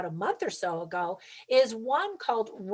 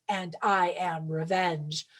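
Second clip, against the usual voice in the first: menacing Russian line; 4 semitones lower, 3 dB quieter, slower than usual. Retold or imitated. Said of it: "And then the Russian says".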